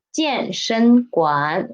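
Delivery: "健身馆" slowly, each syllable clear; 慢读示范; model pronunciation. Shown as a demonstration. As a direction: say "健身馆" slowly for students to copy. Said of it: "Read after me".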